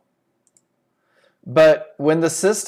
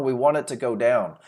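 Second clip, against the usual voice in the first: exasperated sellers. Retold or imitated. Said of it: "they said it for the third time".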